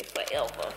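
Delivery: "forever" said like a niece, as fo-elva; niece's pronunciation. Retold or imitated. Aunt quoting her niece's "forever", childlike pronunciation. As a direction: imitate the niece's "forever", R softened to L. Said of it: "That's how my niece say forever".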